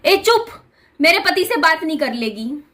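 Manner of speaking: mock scolding mother-in-law silencing her daughter-in-law; retold sharp hush. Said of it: "मैं को चुप करवा दिया मेरी सास ने".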